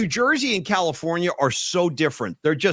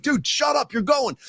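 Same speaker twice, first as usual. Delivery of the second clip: high, bossy mock yell; retold yelling; 8 semitones higher than usual. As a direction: cut off his objection, half-yelled in retelling. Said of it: "I was yelling at Rags the whole ride".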